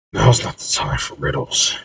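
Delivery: soft, breathy grumble; muttering. A narrator's reading. Corey reading a riddle on the wall, muttering to himself. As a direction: mutter it under your breath. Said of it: "he then mutters".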